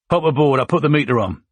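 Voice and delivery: a hint of Cockney cabbie banter; Cockney accent. Soldier jokes about the meter, light Cockney accent. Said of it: "in a Cockney accent".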